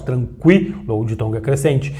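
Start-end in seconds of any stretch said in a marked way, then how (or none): 0.0-0.8 "tranquilo" with weak U gliding into strong I; "tranquilo" broken after a stressed "qui"; tranquilo, stronger I. Shown as a demonstration. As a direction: say "tranquilo" leaning on the "qui" as KWEE. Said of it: "o U mais fraquinho e o I mais forte".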